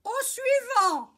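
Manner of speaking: high, loud, drawn-out call. Acted. Host calls the next diver to the board, loud drawn-out call. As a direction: summon the next one loudly, slowly.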